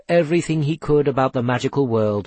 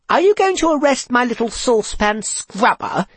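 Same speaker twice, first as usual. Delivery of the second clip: higher, sweetly mock-worried; fake concern; 10 semitones higher than usual. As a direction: feign concern, hiding glee. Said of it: "mask of concern, gleeful".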